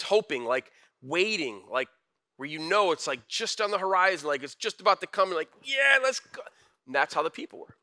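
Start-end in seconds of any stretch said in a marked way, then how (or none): 5.6-6.4 high-pitched expectant cheer; eager cheer. Acted. Preacher voicing people waiting for the coming king, excited. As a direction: cheer like a crowd that has been waiting.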